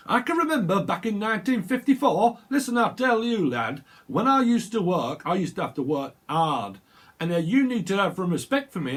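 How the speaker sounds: hammed-up grumpy elder demanding respect; old man lecturing. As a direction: wag your finger at the youngster.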